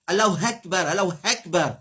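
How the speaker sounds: "Allahu Akbar" with flattened e vowels, like hekber; mispronounced takbir. Shown as a demonstration. Teacher mimicking azans he hears, "Akbar" distorted to hekber. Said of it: "Ça, c'est un azan qui nous tendit".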